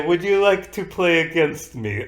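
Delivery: lightly voiced Russian accent; a hint of Russian accent again. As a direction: offer the game in a mild Russian accent. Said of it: "I, Russian".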